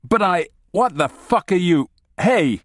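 high, loud panicked outburst; panicked protest. Acted. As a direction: sputter in rising alarm. Panicked analyst protests arrest.

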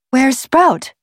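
put-on a touch of high girlish alarm; worried girl. A narrator's reading. Worried girl seeks missing cousin.

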